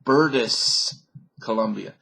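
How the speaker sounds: mock Dutch accent on British. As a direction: imitate a Dutch speaker saying British with an S. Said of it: "he'd say".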